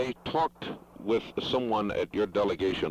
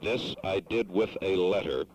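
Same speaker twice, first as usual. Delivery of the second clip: careful, deliberate phrasing; speaking more slowly. Real, not acted. Caller telling a foreign delegate of his letter, slowly. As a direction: repeat it slowly for a non-fluent listener. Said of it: "I will speak more slowly".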